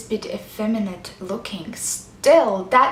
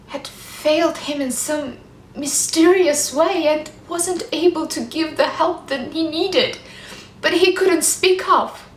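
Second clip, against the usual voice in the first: higher-pitched, pained self-reproach; anguished confession; 4 semitones higher than usual. Acted. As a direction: confess a failure with rising distress. Anguished confession of failing her husband.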